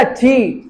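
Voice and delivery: टी with the English T from the teeth. Shown as a demonstration. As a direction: demonstrate टी with a puff, unlike Hindi ट. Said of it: "टी बोलना कैसे सिखाया था".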